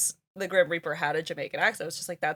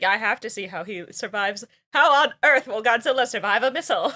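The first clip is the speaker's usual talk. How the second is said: hammed-up cliffhanger question, building louder; mock suspense; 4 dB louder than usual. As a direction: act the hooked viewer, rising in pitch. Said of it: "you're like".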